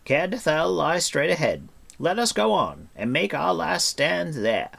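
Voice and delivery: high rallying cry. A narrator's reading. Bard urging the companions to a last stand, crying out. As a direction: call it out loud and urgent. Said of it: "he cried".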